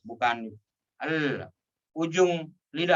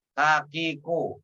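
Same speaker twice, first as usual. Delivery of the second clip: faster reading; slower than usual. Shown as a demonstration. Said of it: "baca lebih cepat".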